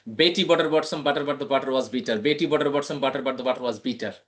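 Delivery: Betty butter bought some butter rattled off in one run; brisk tongue twister. Shown as a demonstration. Teacher gives Charu her turn, brisk running recitation. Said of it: "मैं आपको धीरे से बोलता हूँ".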